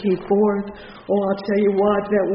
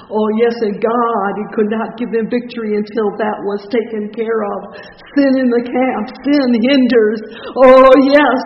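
building louder and higher to a peak; impassioned preaching; 3 semitones higher, 11 dB louder than usual. Real, not acted. Preacher warning the congregation of sin in the camp, impassioned. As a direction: preach it with mounting force. Preaches at rising full force.

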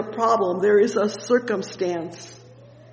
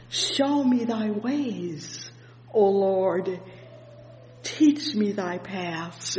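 slow scripture reading; 3 dB quieter, slower than usual. Acted. Preacher reads verse four slowly.

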